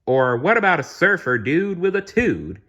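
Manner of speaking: high, loud surfer-dude voice. A narrator's reading. Genie showing off his surfer outfit, hammed-up surfer dude. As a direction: ham up a beach surfer.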